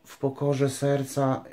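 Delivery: slow, drawn-out, powerless pious delivery; mock mealy-mouthed piety. Mimicking falsely humble preachers on loving Jesus, mushy and slow. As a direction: imitate a limp preacher, dragging each phrase with long pauses. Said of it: "takie rozmemłane, no, rozmemłane, no. Nie ma w tym mocy".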